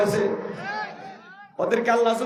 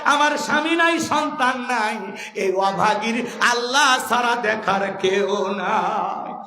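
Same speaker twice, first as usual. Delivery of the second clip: chanted, rising lament slowing to a grieving close; a crying old woman tells Abu Bakr she has no one; tearful lament; slower than usual. Acted. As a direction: wail it like a lonely old widow. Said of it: "চোখের পানি ছেড়ে দিয়া কাঁদে".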